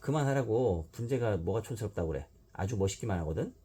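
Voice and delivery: 높게 시작해 버럭 화내기; 억울해서 쏘아붙이듯; angry outburst. Acted. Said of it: "버럭버럭 화를 냈다". (신영이 유마를 노려보며 버럭)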